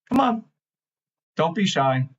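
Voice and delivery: high mocking come on; taunting. Real, not acted. Taunting the absent pro traders, high. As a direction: egg them on, high and taunting.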